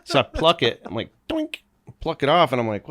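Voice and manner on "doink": quick cartoon "doink"; little comic boink noise; plucking sound effect. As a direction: imitate something being plucked off. Imitates plucking the bug off.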